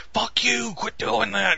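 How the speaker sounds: high-pitched mock telling off; annoyed gamer. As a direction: squeal it at the pipe saboteur. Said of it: "So he's like".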